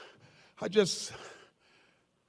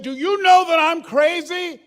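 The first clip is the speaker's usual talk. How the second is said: loud threat; 5 semitones higher, 5 dB louder than usual. Retold or imitated. Threatening the engineer through glass.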